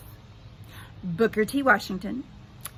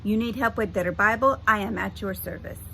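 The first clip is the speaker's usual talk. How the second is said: put-on louder German accent, brushing off praise; thick German accent; 4 dB louder than usual. Gutenberg shrugs off Sierra's praise, thick German accent. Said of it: "a thick German accent".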